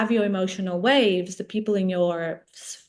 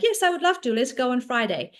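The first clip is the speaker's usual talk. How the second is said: sudden high, bright yes that settles; mock-eager as if riding a good mood; 4 semitones higher than usual. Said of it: "And Monday you feel great".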